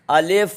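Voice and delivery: "الف" in Arabic reading style; Arabic-style letter name. Shown as a demonstration. Teacher models Arabic style for learners, careful "الف". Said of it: "عربی style میں پڑھیے".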